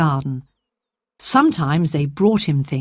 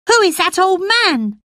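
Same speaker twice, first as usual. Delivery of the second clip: put-on a frail boy promising himself he'll live; sickly boy Colin; 14 semitones higher, 3 dB louder than usual.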